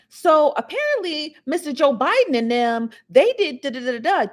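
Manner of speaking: hood newscaster. Retold or imitated. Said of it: "she do it in a hood way".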